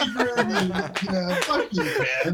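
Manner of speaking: tipsy, words slurring. Real, not acted. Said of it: "you can hear the progression of the both of you getting drunker".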